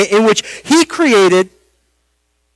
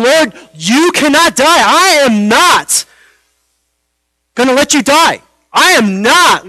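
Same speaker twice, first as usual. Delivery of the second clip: mildly aggressive retold rebuke, higher and emphatic; Peter; 4 semitones higher than usual. Disciple refusing to let his Lord die, imitated forceful rebuke. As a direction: imitate an insistent refusal, drawing out the key words. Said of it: "was Peter's delivery a bit aggressive".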